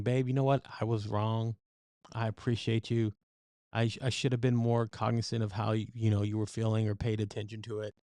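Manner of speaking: a softened, conciliatory apology to a partner; gentle apology. Retold or imitated. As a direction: ease the tension with a quiet sorry. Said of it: "something that's very easing".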